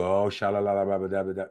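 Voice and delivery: quick babbled prayer sounds; mock fervent praying. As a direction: rattle off mock tongues. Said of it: "I didn't go into".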